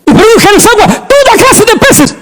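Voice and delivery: high ringing divine command; God commanding. Acted. Preacher voicing God commanding creation, ringing high.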